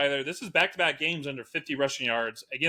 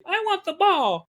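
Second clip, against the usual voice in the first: sulking player; 5 dB louder than usual. Retold or imitated. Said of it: "he's just like".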